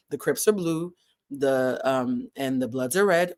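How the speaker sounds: light New England accent. Shown as a demonstration. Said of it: "New England accent".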